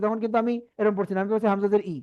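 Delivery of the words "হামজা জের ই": ই from the throat, no glide; throat-made i. Shown as a demonstration. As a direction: say ই as a bare vowel from the throat. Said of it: "আমি যখন হামজা জের পড়ছি".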